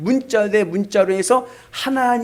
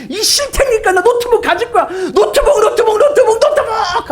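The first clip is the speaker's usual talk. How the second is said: very high, loud chanting tantrum; tantrum son; 7 dB louder than usual. Acted. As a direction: throw a laughable grown-up tantrum. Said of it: "하이마트 마트에 그냥 누워가지고". (바닥에 누워 노트북을 외치며 떼쓰기)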